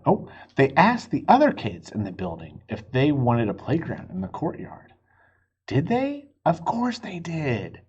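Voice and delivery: put-on gentle read-aloud to a child; storybook reading. A narrator's reading. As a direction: tell it like a bedtime story.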